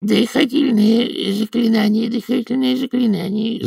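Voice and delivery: high-pitched, droning repetition; fussy high character babble; babbling mutter. A narrator's reading. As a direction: drone it over and over in a high voice. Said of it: "забубнил заведующий кафедрой".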